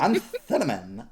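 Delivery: lightly put-on Valley girl; playful hint of Valley girl accent. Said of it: "What accent was that?".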